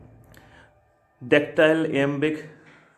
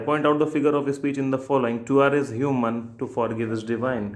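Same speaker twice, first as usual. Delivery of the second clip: slow question reading; much slower than usual. Shown as a demonstration. Teacher reading an exam question to students, slowly.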